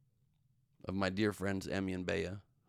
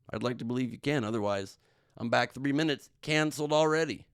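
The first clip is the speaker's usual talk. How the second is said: mock panic; 4 semitones higher, 5 dB louder than usual. Real, not acted. Mock panic over being canceled.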